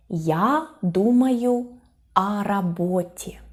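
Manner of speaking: slow, careful example answer; measured teacher's demonstration; slow model sentence. Shown as a demonstration. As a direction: pause between the words for learners.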